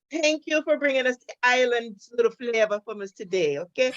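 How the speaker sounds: light put-on Caribbean lilt; a playful hint of an island accent; fake island accent. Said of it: "That's my fake accent".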